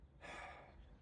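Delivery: long unvoiced sigh of giving in; weary sigh. Jonah in the whale giving in to God, weary sigh. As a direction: breathe out in surrender. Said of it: "he says".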